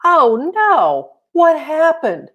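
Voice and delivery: high, loud shocked cry; alarmed scream. A narrator's reading. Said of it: "then screamed".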